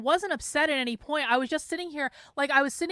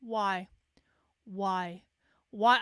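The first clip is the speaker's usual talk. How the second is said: soft, lower, half-whispered lament; weary whispered why; despairing why; 5 semitones lower, 3 dB quieter, much slower than usual. Retold or imitated. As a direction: plead quietly to nobody. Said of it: "I was just like".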